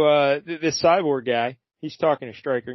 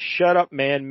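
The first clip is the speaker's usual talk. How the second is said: mock yell; 4 dB louder, slower than usual. Podcaster retelling Cyborg yelling at Stryker, mock yell. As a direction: imitate an irritated yell, only half full. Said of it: "he starts yelling".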